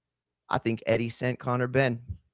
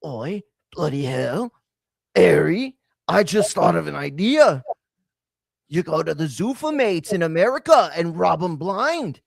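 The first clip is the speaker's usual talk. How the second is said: mock British accent; 2 semitones higher, 3 dB louder than usual. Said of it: "And then Eddie's like".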